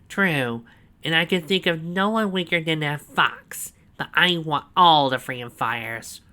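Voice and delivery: loud, high, slow gloating; proud villain boast. A narrator's reading. Snively proudly showing Donovan the cell, loud and slow. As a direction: savour every word of the boast.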